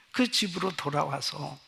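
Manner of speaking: ordinary talk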